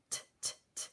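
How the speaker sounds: voiceless t, t, t puffs; whispered t sounds. Shown as a demonstration. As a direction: breathe out t with no voice. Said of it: "Who's the last sound?".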